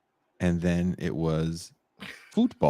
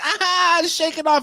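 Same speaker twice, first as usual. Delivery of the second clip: comforting dad; 3 dB louder, slower than usual. Retold or imitated. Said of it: "I was like".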